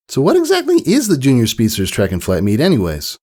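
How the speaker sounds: put-on a young filly asking eagerly; Sweetie Belle. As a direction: inquisitive child pony voice. Sweetie Belle voiced in story.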